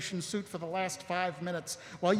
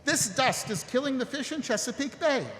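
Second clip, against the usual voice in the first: higher-pitched, indignant explanation; urgent realisation; 6 semitones higher than usual. Acted. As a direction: press the discovery home with urgency. Captain realises cause of fish deaths.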